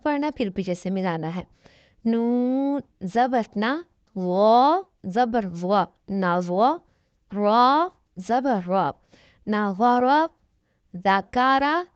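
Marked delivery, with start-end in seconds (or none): 2.0-11.8 slow, drawn-out syllable spelling; teacher reading the Qaida aloud slowly; spelling drill. Shown as a demonstration. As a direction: sound out each letter slowly for a child. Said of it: "ایسے ہجے کرنے ہیں".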